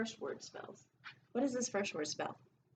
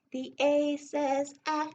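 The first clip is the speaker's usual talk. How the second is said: "ah" sung out higher and louder; sing-song letter sound; 5 semitones higher, 6 dB louder, slower than usual. Shown as a demonstration. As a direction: chant the sound for the class. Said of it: "Every letter makes a sound".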